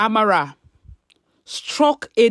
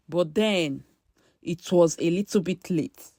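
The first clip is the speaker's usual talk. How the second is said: usual speaking voice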